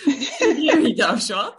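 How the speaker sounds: talking through laughter; laughing so hard she can barely speak. Real, not acted. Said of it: "Bu beni çok güldürüyor".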